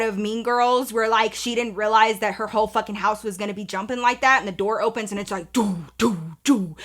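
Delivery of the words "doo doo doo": imitated music beat.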